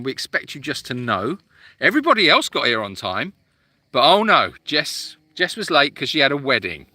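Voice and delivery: teasing, put-on telling-off; mock scolding. Host to Jess who came late, mock scolding. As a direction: pretend to be outraged at a latecomer. Jokingly tells off latecomer Jess.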